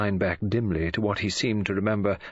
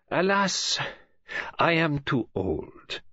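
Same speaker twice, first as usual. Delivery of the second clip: downcast; 7 semitones higher, slower than usual. Acted. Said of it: "You sound upset".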